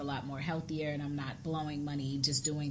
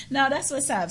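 higher and louder, through real laughter; laughing approval; 9 semitones higher, 5 dB louder than usual. Real, not acted. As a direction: approve while still laughing. Still amused after laughing.

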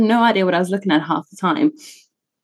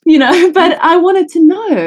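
emphatic; 9 semitones higher, 5 dB louder, slower than usual. Real, not acted. Emphatic high slow line.

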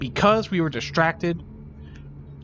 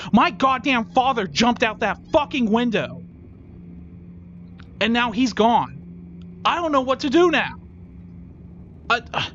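higher, strained voice of grief; distressed grief; 6 semitones higher than usual. Acted. Son breaking down over his father's death. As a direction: let it crack as you break down.

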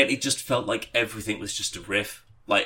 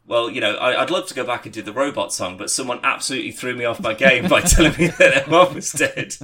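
laughing imitation; 3 semitones higher, 8 dB louder than usual. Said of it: "he was just like".

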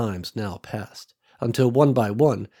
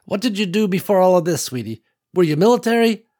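lightly voiced older country woman, a bit higher; old farm woman Ruby; 8 semitones higher, 5 dB louder than usual. Ruby telling Nicole about her land, lightly voiced old woman. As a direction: let a hint of an old rancher widow in.

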